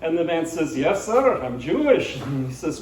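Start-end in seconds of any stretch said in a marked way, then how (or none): 0.8-2.2 put-on lightly accented Borscht Belt old man. Old man answering the priest, light Borscht Belt accent. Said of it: "Borscht Belt accent".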